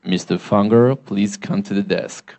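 low, slow announcer over the PA; drawn-out, low-pitched public paging voice; airport PA announcement. Retold or imitated. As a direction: imitate an airport paging call. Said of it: "פתאום מכריזים בכריזה".

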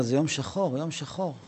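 quiet, sorrowful father fading almost to nothing; father weeping. Acted. Father mourning to his son, quiet and sorrowful. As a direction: grieve over the black day. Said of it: "אבא שלו התחיל לבכות".

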